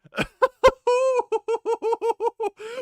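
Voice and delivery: loud laugh. Real, not acted. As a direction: burst of high cackling laughter. Fan laughing at game recap.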